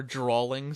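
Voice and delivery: "drawing" said as "drawling"; added L. Shown as a demonstration. Mimicking other people's slip, "drawing" as "drawling". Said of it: "people who say they're drawing something".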